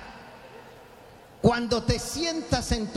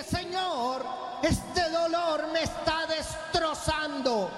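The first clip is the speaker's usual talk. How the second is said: anguished prayer; 3 semitones higher than usual. Shown as a demonstration.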